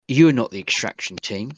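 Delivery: put-on a light German accent over a tinny intercom; lightly voiced German-accented woman on the speaker; a cold intercom voice with a hint of German accent. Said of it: "there's a distinct Germanic twang to it".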